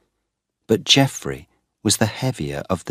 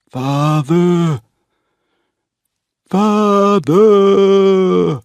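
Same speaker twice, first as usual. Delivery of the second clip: builds to a very high, loud cry; Geoffrey crying out across the fields, rising in panic; desperate shouts; 13 semitones higher, 9 dB louder, much slower than usual. A narrator's reading. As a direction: scream for him, louder each time. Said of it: "he shouted".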